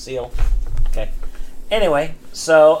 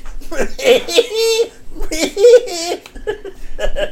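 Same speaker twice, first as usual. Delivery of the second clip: chirping cricket voice; 13 semitones higher than usual. Shown as a demonstration. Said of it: "They sound something like this".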